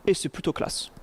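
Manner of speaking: breathy half-voice under his breath; whispered aside. Real, not acted. Lecturer admiring a style-transfer slide, whispered aside. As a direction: murmur it to yourself, admiring.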